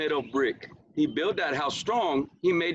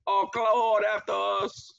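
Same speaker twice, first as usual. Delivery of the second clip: high panicked yell for help; frightened cry; 9 semitones higher than usual. Acted. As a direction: pigs shrieking to their brother. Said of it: "them other pigs cry".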